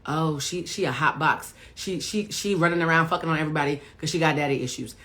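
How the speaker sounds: a mock gossip, quick and knowing, not much changed from her own voice; gossiping judgmental voice. Coach mimicking what people say about a stripper, in a light mock gossip. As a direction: rattle off the cliché like a gossiping auntie.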